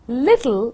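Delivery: LITTLE with a slight touch of t; light T. Shown as a demonstration. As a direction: barely tap the t in LITTLE. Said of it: "very little slight touch on t sound".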